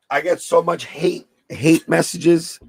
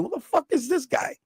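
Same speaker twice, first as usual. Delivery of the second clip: mock indignant; 10 semitones higher, 8 dB quieter than usual. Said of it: "I'm saying".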